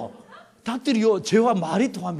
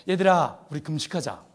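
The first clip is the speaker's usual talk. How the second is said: telling the chickens to fast; 7 semitones lower, 4 dB quieter than usual. Retold or imitated. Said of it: "이렇게 얘기합니다".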